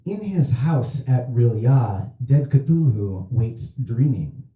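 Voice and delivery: slow, measured recital of a prophecy; understated occult solemnity; solemn translator. Acted. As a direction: lightly intone the translation, word by word. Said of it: "means roughly".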